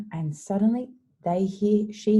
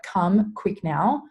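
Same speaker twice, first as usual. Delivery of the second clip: mildly urgent, raised call; 3 semitones higher, 5 dB louder, much slower than usual. Retold or imitated. Mary fetching the disciples, urgent. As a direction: hurry them along, louder.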